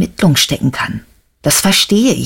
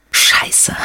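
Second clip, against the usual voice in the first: whispered curse. Acted. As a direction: breathe the curse under your breath. Bad news after phone call. (geflüsterter Fluch)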